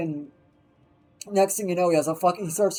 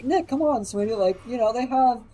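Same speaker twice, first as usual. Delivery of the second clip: high, gentle coaxing mom; 4 semitones higher than usual. Retold or imitated. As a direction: sweet-talk the stubborn son. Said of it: "and his mom was like".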